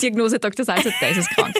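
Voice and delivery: mock diagnosis through laughter; laughing. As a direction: laugh out the verdict.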